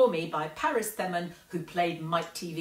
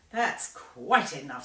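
snapping; 3 semitones lower, slower than usual. Acted. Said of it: "snapped Grandma Josephine".

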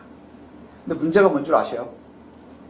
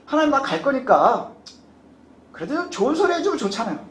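inner thought voiced to God; 6 semitones higher than usual. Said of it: "하지만 속마음은 뭔가요".

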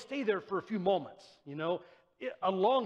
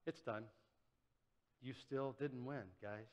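soft dying defiance; 8 semitones lower, 13 dB quieter than usual. Acted. Jesus on the cross, agony.

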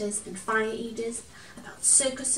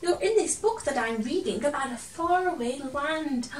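put-on excited girl voice; 5 semitones higher, 5 dB louder than usual.

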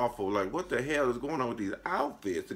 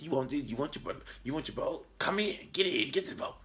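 soft, coaxing clown voice, ending higher; creepy clown lure; 3 semitones higher, 4 dB quieter than usual. Retold or imitated.

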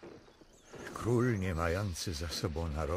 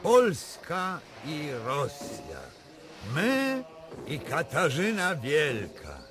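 high, loud jubilation; exultant cry; 7 semitones higher, 4 dB louder than usual. Acted. King exulting over the Russian alliance, high and loud. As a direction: ring it out in triumph.

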